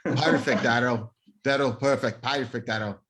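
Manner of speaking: a hint of a Scottish accent on perfect, Daryl; mock Scottish Simon. Bandmate playfully imitating Simon's Scottish accent. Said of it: "Sounds like Simon".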